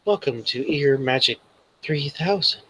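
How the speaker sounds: lightly voiced computer assistant; a hint of a device's start-up announcement; automated earpiece greeting.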